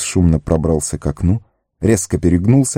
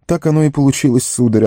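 high, sheepish excuse; apologetic gardener; 8 semitones higher than usual. A narrator's reading. Sam justifies himself to Gandalf, sheepish and high. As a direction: justify yourself in a high, humble voice. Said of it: "оправдывался Сэм".

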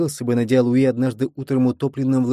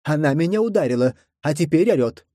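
high, whining complaint; whiny complaint; 3 semitones higher than usual. Acted. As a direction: complain like a tattling child. Lilu complains, reproachful.

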